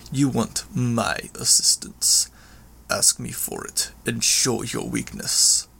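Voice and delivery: lightly voiced villain, phrase by deliberate phrase; understated menace, slowing on the demands; taunting villain. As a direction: coolly demand submission as a proud brute. Villain taunts narrator demanding submission.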